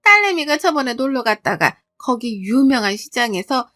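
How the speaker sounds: lightly voiced mother-in-law, lilting upward; casually explain, stretching the last words; chatty mother-in-law. Mother-in-law explaining the side dishes, lightly acted chatty tone. 시어머니가 딸 자랑하며 답함.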